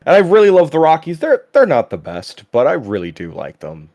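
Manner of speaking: lightly put-on impression of a friend; halting, earnest mimicry of your buddy gushing; imitating co-host. Host takes his turn mimicking his co-host on sports, light impression. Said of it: "You've gotta do me now".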